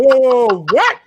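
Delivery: startled whoa. Retold or imitated. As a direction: react like the news just hit you. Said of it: "I'm like".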